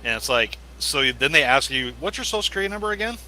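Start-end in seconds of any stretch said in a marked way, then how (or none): 2.0-3.2 mock caller. Mocking a scam caller's question.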